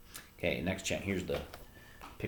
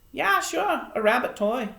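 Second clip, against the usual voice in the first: put-on high, louder young man's voice; offhand young fisherman, pitched up; younger fisherman, dismissive; 6 dB louder than usual. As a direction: shrug it off as a young sailor.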